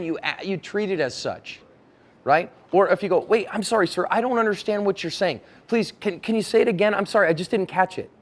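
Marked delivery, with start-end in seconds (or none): 3.2-8.1 earnest, hesitant apology; seeking to understand. Acted. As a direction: politely ask them to say it again. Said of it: "I'm seeking knowledge".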